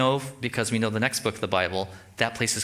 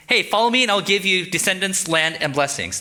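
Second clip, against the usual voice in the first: lightly voiced God, louder and higher; God calling Abram; 6 semitones higher, 4 dB louder than usual. God offering Abram descendants and land, lightly voiced role. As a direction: make the offer as God, a little raised. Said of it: "He goes up to Abraham and says".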